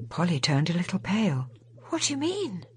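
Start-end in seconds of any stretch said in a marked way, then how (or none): 1.9-2.7 a hint of a worried young woman, higher; anxious young woman asking; Polly's voice. A narrator's reading. Polly frightened question.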